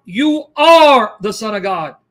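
slow, emphatic mock outcry; mild retold cry. Preacher voicing impure spirits falling before Jesus, mild retold cry. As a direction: draw out a retold cry, stressing ARE. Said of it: "cried out".

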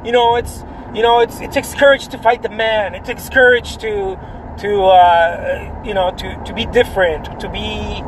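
laid-back surfer dude voice, lightly voiced. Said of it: "my awesome surfer boys".

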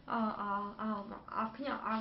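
soft, bashful stammer; shy mumbling boyfriend. Retold or imitated. Girlfriend imitating her shy boyfriend stammering. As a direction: mimic his embarrassed mumbling.

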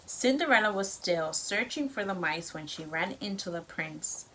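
lively storybook read-aloud; reading to children. A narrator's reading. Parent reads story to child.

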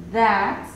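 "That" repeated with voiced th; English TH sound. Shown as a demonstration. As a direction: say "That" clearly with a voiced th. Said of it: "Como en su ejemplo". ("That" repetido con th sonora)

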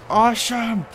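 slow, loud mock cheer; excited. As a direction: stretch it out in delight. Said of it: "It'd be like".

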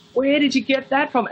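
high, astonished mock question; surprised collector. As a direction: play a stunned fan spotting something new. Collector's surprised reaction retold.

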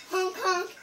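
piglet's acted honking; goose honk. Pig honks by mistake.

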